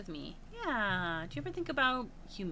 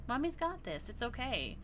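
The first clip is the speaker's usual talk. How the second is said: soothing mother; 3 semitones higher, 4 dB quieter than usual. Acted. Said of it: "she hushes".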